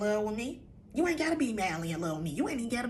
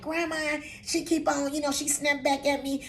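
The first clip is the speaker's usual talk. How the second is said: lightly voiced child complaining, higher; a hint of a complaining grandchild; tattling grandson; 5 semitones higher than usual. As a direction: imitate a kid tattling to grandma.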